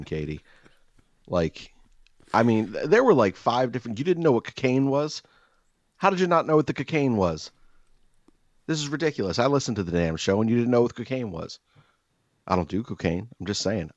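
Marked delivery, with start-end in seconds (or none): 2.3-11.6 exasperated rant. Real, not acted. Ranting at Katie.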